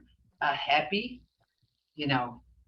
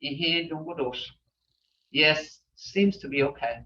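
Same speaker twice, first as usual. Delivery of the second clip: concerned tone; 2 semitones lower than usual. Shown as a demonstration. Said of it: "You can use that tone".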